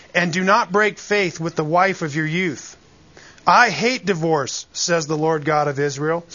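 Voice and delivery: measured, solemn Bible reading; scripture reading. Acted. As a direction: read the verses with weight and care. Reads scripture passage aloud.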